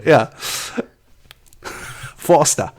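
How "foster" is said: mock Aussie beer-ad delivery; playful Aussie accent; Australian accent. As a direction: say it like an Australian ad voiceover. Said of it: "in an Australian accent".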